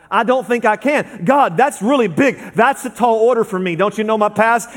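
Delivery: a touch of anxious pleading; doubting believer. Retold or imitated. Believer protesting to God, a hint of worried pleading. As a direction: plead your unworthiness mildly.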